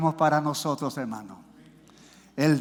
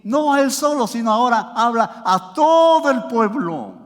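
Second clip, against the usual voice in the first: raised, emphatic preaching voice; prédica enérgica; 4 semitones higher, 5 dB louder than usual. Real, not acted. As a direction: preach it out to a whole congregation. (predicación enfática y elevada)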